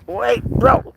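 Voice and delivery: sudden high call to the cat; a startled high "wait". Real, not acted. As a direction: stop him mid-pounce with a quick yelp. Calling to the cat pulling away.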